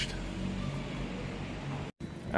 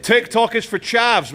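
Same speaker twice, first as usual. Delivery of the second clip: posh mock disdain; 10 semitones higher than usual. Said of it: "teasing a passerby".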